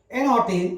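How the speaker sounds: "an hotel" run together as "an-otel"; silent H. Shown as a demonstration. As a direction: drop the H in "hotel" after "an". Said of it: "എച്ച് ഉച്ചരിക്കാൻ പാടില്ല". ("hotel" എച്ച് ഉച്ചരിക്കാതെ, "ഓട്ടൽ" എന്ന്)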